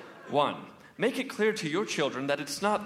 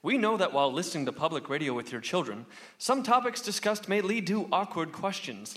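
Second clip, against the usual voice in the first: announcer voice. Acted. Announcer PSA read.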